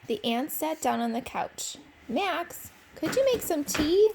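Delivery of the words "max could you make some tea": aunt asking. Acted. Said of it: "said Aunt Pat".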